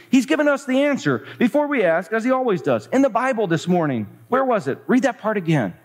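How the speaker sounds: high-pitched, eager excitement; excited. Acted. Betsy tells Corrie she has the answer, high and excited. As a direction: read it as a thrilled discovery. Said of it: "she said excitedly".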